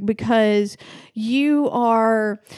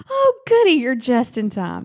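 gleeful host; 3 dB louder than usual. Pretend. Playing the killer host.

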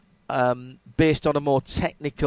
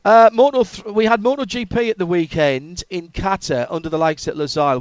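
energetic topic launch; 3 semitones higher, 5 dB louder than usual. Real, not acted. Host launches a new topic.

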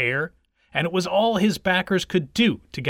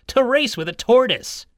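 higher-pitched, incredulous hare; pooh-pooh the whole idea; scoffing hare; 7 semitones higher, 4 dB louder than usual. A narrator's reading. Hare looking round for his rival, scoffing.

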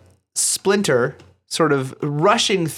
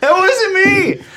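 put-on voice; 6 dB louder, slower than usual. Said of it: "It wasn't you".

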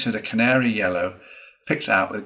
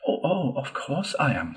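higher, hesitant little Mole; loyal; 6 semitones higher than usual. A narrator's reading. Mole assuring Rat of his support, loyal. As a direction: agree readily out of loyalty. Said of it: "said the Mole loyally".

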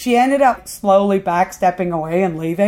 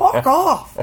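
high, loud drawn-out curse; acted-out belligerent shout; angry dismissal; 8 semitones higher, 5 dB louder than usual. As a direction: send them packing with a yell. Ricky curses the lady off.

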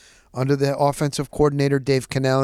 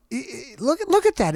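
amazed; 10 semitones higher than usual. Real, not acted. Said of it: "amazed exclamation".

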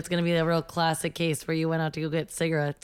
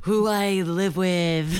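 character echo; slower than usual. Pretend. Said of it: "new character".

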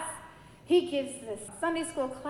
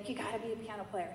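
hushed voice of God; 8 dB quieter, faster than usual. Retold or imitated. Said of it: "he would wake me up".

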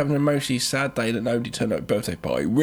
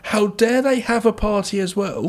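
mock drunk mum; 6 semitones higher than usual. Drunk mum voiced higher.

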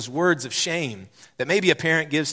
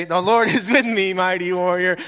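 empowered declaration; 5 semitones higher, 4 dB louder than usual. Shown as a demonstration. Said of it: "in that same tone".

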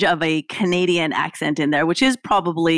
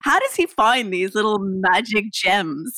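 high, bemused wondering voice; puzzled self-quote; 3 semitones higher than usual. Retold or imitated. Host replaying her own puzzled question. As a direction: act out your baffled question.

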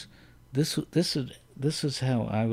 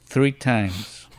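laughing quote; 4 dB louder than usual. Retold or imitated. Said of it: "Avery Schreiber who said three times".

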